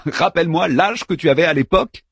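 sneering. A narrator's reading. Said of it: "ricana Daeman".

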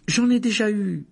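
put-on high, loud boy's objection; insistent protest. A narrator's reading. Boy telling the nurse no need, insistent. Harry refusing more treatment.

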